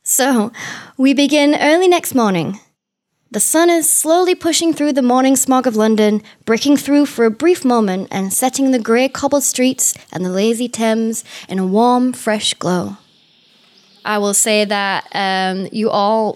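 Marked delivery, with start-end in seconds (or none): 1.0-13.0 storyteller describing a London morning; scene narration. Acted. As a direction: set the scene like a game master. GM scene setting.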